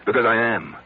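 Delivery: patient insisting to the doctor he is pitiable, loud; emphatic self-judgment. Acted. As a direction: hit it hard, bitter certainty.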